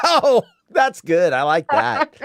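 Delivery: laughing approval. Real, not acted. Enjoying the frying pan gag, laughing. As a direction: laugh through the words, delighted by the gag. Cracking up at sound effect gag.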